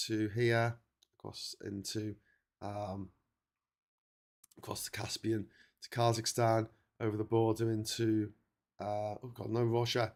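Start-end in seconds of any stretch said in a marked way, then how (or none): 1.2-6.7 whispering. Real, not acted. Whispered while tracing map.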